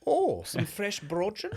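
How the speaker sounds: high, slow, swooning over the bakery; drawn out like a kid spotting pastries; mock-blissful craving voice; delighted pastry gasp. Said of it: "So I was like".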